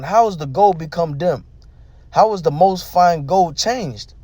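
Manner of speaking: slow, measured Bible reading; scripture reading. Acted. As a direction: read the verse out deliberately. Reads Lamentations scripture aloud.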